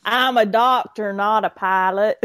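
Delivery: put-on old country doctor with a Georgia accent; Southern country doctor. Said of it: "He was an old country doctor".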